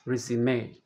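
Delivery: noun resume stressed on RE; resume, first syllable stressed, final E as AY. Shown as a demonstration. Teacher recapping the noun resume, stress on first syllable. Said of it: "Stress is on the first syllable".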